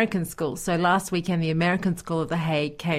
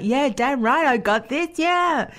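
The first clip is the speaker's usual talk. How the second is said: higher, defiant self-hype; pumped-up reply; 6 semitones higher, 3 dB louder, slower than usual. Retold or imitated. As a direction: fire yourself up mid-race. Her reply while running.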